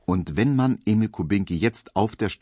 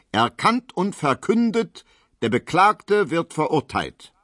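higher, slow, loud proclamation; solemn verdict; 9 semitones higher, 3 dB louder than usual. A narrator's reading. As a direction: hand down the sentence with weight. Judge pronounces verdict.

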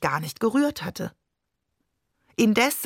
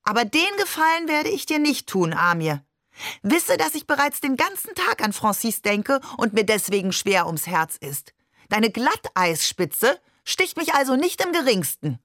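lightly voiced grandmother, pitched up, defiant; indignant grandmother; 4 semitones higher than usual. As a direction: deliver a proud rebuke as grandma. Oma rebukes Barbe in dialogue. (leicht gespielte, gekränkte Oma mit höherer Stimme)

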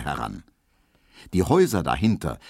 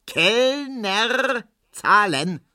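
calling the waiter again; 14 semitones higher, much slower than usual. Acted. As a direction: hail the waiter insistently. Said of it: "ruft Herr Ziebland nochmals".

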